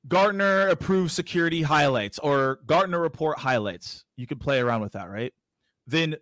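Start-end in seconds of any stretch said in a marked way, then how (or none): 0.1-4.0 slow, spaced-out dictation. Real, not acted. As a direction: dictate it slowly so they can write it down. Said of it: "So I'll slow it down".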